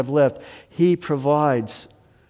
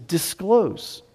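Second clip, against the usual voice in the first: disclose lifted and drawn out; stress on disclose; 3 semitones higher than usual. Shown as a demonstration. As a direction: lean on the word disclose.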